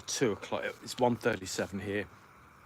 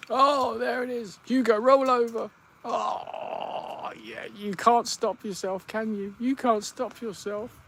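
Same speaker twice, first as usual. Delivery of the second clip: much higher and louder delighted pet voice; 13 semitones higher, 6 dB louder than usual. Real, not acted. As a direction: squeal with joy as the dog rolls. Delighted baby talk at rolling dog.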